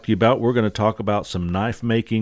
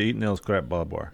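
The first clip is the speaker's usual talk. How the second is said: southern accent; 3 semitones lower, 5 dB quieter than usual. Shown as a demonstration. Host feeding his co-host the catchphrase, southern accent. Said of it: "It doesn't sound quite as southern".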